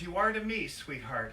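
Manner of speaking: doting mom. Retold or imitated. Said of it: "She goes".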